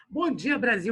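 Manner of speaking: lightly voiced upbeat vlogger greeting; blogger voice. Teacher plays a blogger for his online class, mild vlogger voice. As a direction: open like a livestream host, a hint of hype. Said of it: "deixa eu incorporar o blogueiro".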